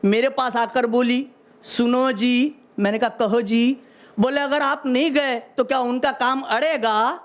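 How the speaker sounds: measured stage recital of humorous verse; phrase by phrase to an audience; comic poem recitation. Acted. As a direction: declaim it like a hasya kavi. Recites husband-wife dialogue in verse.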